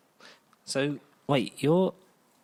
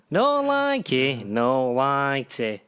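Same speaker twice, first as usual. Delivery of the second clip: mock catchphrase; 3 dB louder, much slower than usual. Silly catchphrase in put-on voice.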